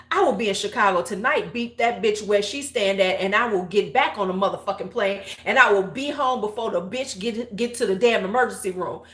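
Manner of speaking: fast retold rant, rolling on without a break; going off. Friend threatening to fly to Chicago, going off. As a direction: rattle off threats like a fired-up friend. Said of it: "she's just going off".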